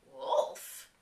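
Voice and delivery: breathy whispered "Wolf?", low; whispered question. Shown as a demonstration. Vlogger echoing the lyric, whispered puzzled question. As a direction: hush the word as a puzzled aside.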